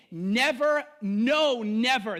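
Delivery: Never, no, never, each word hit hard; emphatic never. Retold or imitated. Peter insisting to Jesus, emphatic. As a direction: lean on every Never. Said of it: "There's an extra emphasis".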